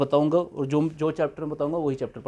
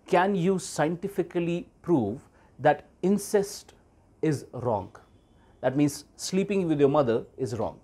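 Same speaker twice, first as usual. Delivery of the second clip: retold question; much slower than usual. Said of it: "Hamza asked Lawrence Krauss".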